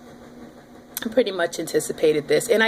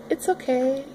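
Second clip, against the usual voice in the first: soothing; 6 semitones higher, 3 dB quieter than usual. Retold or imitated. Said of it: "Like you would a little cat".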